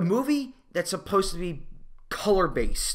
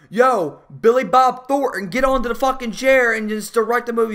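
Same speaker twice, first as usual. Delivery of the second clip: bossy studio exec; 3 semitones higher, 6 dB louder than usual. Retold or imitated. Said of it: "It's like".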